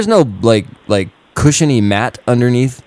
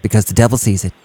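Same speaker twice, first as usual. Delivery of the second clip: lightly voiced preachy youth pastor; cheery churchy talk to teens; upbeat youth pastor; 2 semitones lower than usual. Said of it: "youth pastor voice".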